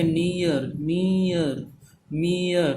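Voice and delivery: नियर, मियर with a long "ee" sliding down into "uh"; carefully modelled नियर, मियर, "nee-uhr, mee-uhr"; two vowels sounded. Shown as a demonstration. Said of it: "तो यहाँ पे दो vowel sound है".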